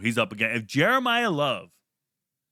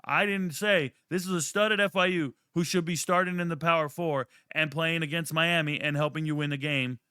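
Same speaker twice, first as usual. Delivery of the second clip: overexcited fan gushing, pitched up; mock the hype he never said; mock overhyped fan; 3 semitones higher than usual. Shown as a demonstration. Poking fun at fans, mock gushing hype. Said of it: "I never once talked like that".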